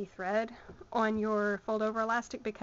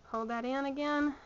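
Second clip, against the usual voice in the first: slipping into a Southern accent; 2 semitones higher than usual. Real, not acted. Sewing teacher talking through a stitch, southern accent. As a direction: let a Southern accent slip out. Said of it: "y'all just heard my southern accent".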